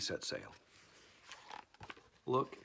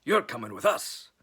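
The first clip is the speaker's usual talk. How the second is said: pirate order; 8 dB louder than usual. Acted. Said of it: "Braidbeard told me".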